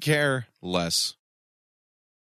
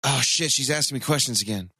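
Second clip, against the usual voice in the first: Towelie; 4 semitones lower than usual. Retold or imitated. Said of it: "It reminds me of South Park's Towley, where he's like".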